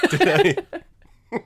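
teasing disbelief, laughing up high; mock surprise. Real, not acted. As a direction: act floored by a compliment.

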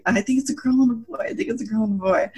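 excited guessing. Retold or imitated. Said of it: "And I kept going".

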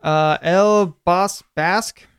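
very slow, careful word-by-word reading; laboured beginner reading aloud; halting Spanish reading. Real, not acted. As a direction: pick through the foreign words slowly.

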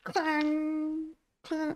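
metal clang. Retold or imitated. Mimics dulcimer after lessons joke.

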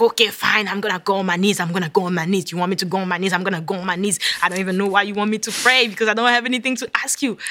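grudging, defiant, picking up speed at the end; a mock-rude reply to God, given in with a sulk; rude grudging compliance. Retold to listeners, defiantly giving in to God's demand to kneel. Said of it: "with all the rudeness".

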